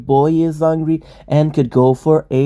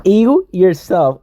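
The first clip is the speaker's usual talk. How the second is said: mocking retort; 5 semitones higher, 4 dB louder, slower than usual. Real, not acted. Mocking comeback to partner's "Ew.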